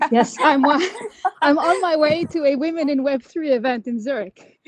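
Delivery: giggling through the words; laughing. Real, not acted. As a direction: laugh while talking, a bit breathless. Laughing while walking uphill.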